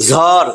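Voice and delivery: "ঝড়" breathy jh, flapped r; Bengali word "ঝড়". Shown as a demonstration. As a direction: say "ঝড়" with a clear aspirated jh. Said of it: "ঝড়ের উচ্চারণটা ঝড়".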